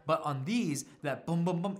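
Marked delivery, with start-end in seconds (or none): 1.2-1.8 tight, crisp booms; punchy bass imitation; clean bass imitation. Shown as a demonstration. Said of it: "it resolves, it ends".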